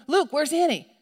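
acting a parent losing track of a child; worried parent calling. Mother questions Luke about his missing sister, worried calling.

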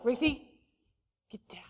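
low, soft, ineffectual dog command; half-hearted command. Retold or imitated. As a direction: tell the dog off without meaning it. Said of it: "You don't mean it".

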